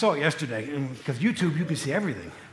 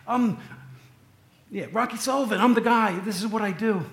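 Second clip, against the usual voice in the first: defiant gangster; 5 semitones higher, 3 dB louder than usual. Retold or imitated. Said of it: "He says".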